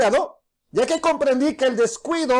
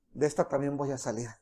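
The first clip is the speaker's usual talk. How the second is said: mock confident thought; 10 semitones lower, 11 dB quieter than usual. Samson's boastful thought.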